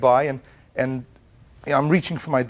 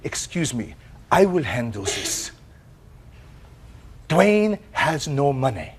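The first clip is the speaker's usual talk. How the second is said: lightly voiced French accent; French woman. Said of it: "the French woman".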